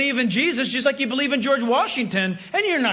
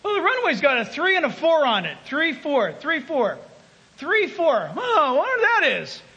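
raised, puzzled voice of a big fisherman; big fisherman puzzling; 4 semitones higher than usual. Retold or imitated. Fisherman behind him wondering aloud at the runway numbers. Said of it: "And this guy goes".

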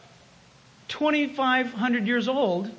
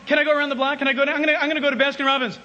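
fast, raised pleading; eager teenager; 3 semitones higher, much faster than usual. Retold or imitated. Teenager asking a parent to drive around, eager. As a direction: rattle off requests in a hurry. Teenager begging for car keys.

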